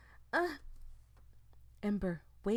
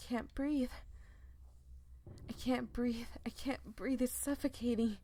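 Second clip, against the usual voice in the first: panicked; 5 semitones higher than usual. Acted. Character's mounting panic.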